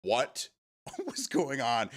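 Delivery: drawn-out, laughing puzzlement; slow, mock-confused question; mock bewilderment. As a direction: act out a baffled future reader, slowly. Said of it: "they're gonna be like".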